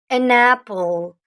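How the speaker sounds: An apple, spelled out slowly; slow teacher model of "An apple"; slow and clear. Shown as a demonstration. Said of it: "On peut pas dire a apple". (lentement, en articulant "An apple")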